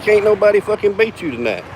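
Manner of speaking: high-pitched, mildly baffled imitation; incredulous retold complaint. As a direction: quote the beaten player's disbelief up high. Retold player accuses him of hustling.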